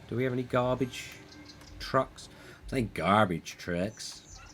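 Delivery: a clumsy attempt at an American accent; bad American accent. Vlogger mocking his own bad American accent. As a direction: put on a jokey American accent for the words. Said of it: "that was the worst American accent".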